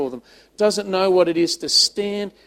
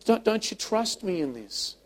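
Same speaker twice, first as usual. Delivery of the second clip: higher, gently hurt questioning; tender appeal; 5 semitones higher than usual. Acted. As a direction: act a loving father's halting appeal. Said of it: "I just imagine him saying".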